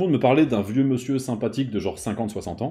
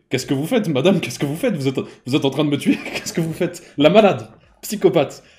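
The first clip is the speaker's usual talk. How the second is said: panicked yell; 3 semitones higher, 4 dB louder than usual. Retold or imitated. Panicked protest at the doctor.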